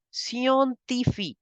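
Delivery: scientifique with French i sounds and a crisp k. Shown as a demonstration. Teacher models French scientifique. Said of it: "you pronounce it as".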